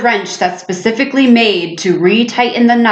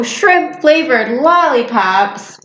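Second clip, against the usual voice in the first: grossed out; 2 semitones higher, slower than usual. Real, not acted.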